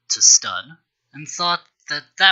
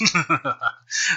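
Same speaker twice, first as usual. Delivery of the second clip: manic chuckle; 3 semitones higher than usual. A narrator's reading. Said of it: "Necron chuckled manically to himself".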